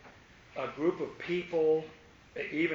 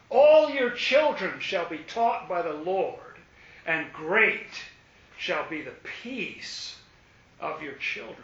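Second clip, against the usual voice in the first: slow, much louder booming scripture proclamation; proclaiming loudly; 2 semitones higher, 7 dB louder than usual. Acted. Preacher declaring the children's promise to his congregation, slow and loud.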